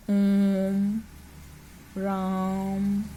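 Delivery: ओम and राम held very long, like calling from afar; ओम, राम dragged out long; prolonged call. Shown as a demonstration. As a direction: stretch ओम and राम out as if calling from far away. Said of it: "खींच के बोला जाता है".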